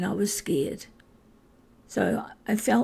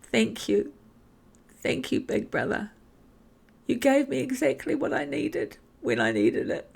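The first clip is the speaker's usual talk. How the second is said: higher, strained voice close to tears; tearful thanks; 4 semitones higher than usual. Real, not acted. Thanking her big brother, tearful and choked. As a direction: thank him through rising emotion. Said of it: "Sorry, this is an emotional memory for me".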